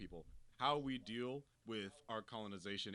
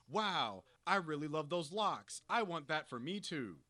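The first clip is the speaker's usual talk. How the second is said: lightly mocked wide-eyed admiration, a bit louder; imitated gushing admirer; 4 semitones higher, 4 dB louder than usual. White admirer coveting someone's locks, mock gushing. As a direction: gush as a covetous outsider, lightly put on. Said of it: "when you see white people go".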